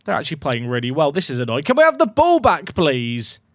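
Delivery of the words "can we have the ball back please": frustrated plea. Real, not acted. Frustrated at opponents.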